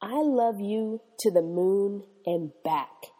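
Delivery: tender. Retold or imitated. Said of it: "I wrapped my arms around her".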